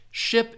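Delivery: ship with a short, lax I. Shown as a demonstration. Teacher recapping ship for students, short I vowel. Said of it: "the short I sound".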